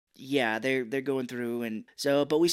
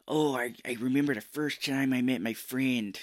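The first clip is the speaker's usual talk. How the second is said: bad Chicago accent. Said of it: "it's a bad Chicago accent".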